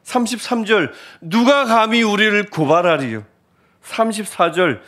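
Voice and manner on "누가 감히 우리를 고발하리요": emphatic declaimed rhetorical question; proclaimed challenge. Retold or imitated. Preacher quoting the apostle's verse, emphatic cry. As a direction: throw it out as a bold challenge. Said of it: "이렇게 외치는 겁니다".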